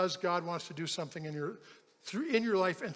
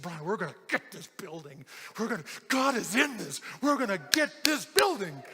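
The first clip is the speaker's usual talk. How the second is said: fired-up conviction. Retold or imitated. Worker phoning pastor about the building, fervently excited. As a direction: imitate an emphatic rallying cry.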